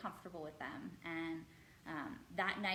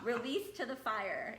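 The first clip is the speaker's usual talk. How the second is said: put-on slow, gentle German accent, slightly higher; 4 semitones higher, 5 dB louder, slower than usual. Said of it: "I heard in her little German accent".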